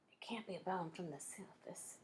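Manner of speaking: soft unvoiced whisper; quiet whispered reasoning; whispering quietly. A narrator's reading. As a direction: keep it hushed, hiding by the window. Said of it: "Cam said quietly".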